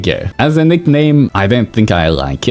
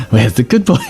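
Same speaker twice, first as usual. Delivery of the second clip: dog-praise voice; 3 semitones higher than usual. Shown as a demonstration. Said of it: "you'd say it differently".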